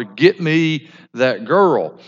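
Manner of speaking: demanding son. Acted. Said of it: "he tells his father".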